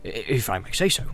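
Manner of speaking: lightly voiced landlord, halting and discreet; confiding innkeeper. Landlord tells Frodo he fits a description, confiding. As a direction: tread carefully round someone's secret.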